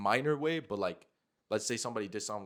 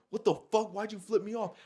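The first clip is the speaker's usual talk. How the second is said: higher-pitched mock indignation; indignant confrontation; 8 semitones higher than usual. Girl confronting him about the gesture, imitated indignantly. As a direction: act out her outraged challenge. Retelling the girl's angry confrontation.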